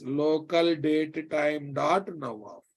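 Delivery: slow, deliberate teaching repeat; slow dictation. Shown as a demonstration. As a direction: drag each word out for students. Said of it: "teacher repeats slowly".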